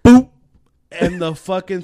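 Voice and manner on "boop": short, punchy "boop" impact noise; imitated bump. Telling friends about the car-wash mishap, imitated bump. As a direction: pop out a cartoon bump sound.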